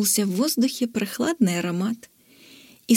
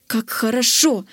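exclaiming. Acted. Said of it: "воскликнул Зок".

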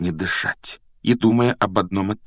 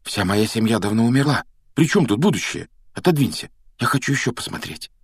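raised-pitch protest; mildly impatient, higher voice; heated objection; 3 semitones higher than usual. Acted. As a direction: object with some heat. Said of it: "горячо возразил Гарри".

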